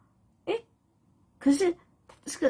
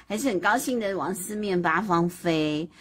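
ordinary delivery, nothing marked

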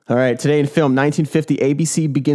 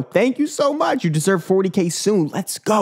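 high hype voice; 6 semitones higher than usual. Pretend. Thanking a fan in a put-on voice.

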